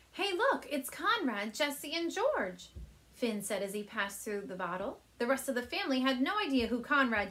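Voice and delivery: called out to family in another room; calling out. Acted. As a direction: Claire calling to her family about the movies. Teacher reads aloud to class.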